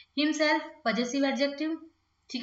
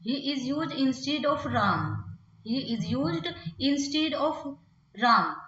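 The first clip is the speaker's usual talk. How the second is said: slow dictation; much slower than usual. Shown as a demonstration. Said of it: "teacher dictating example slowly".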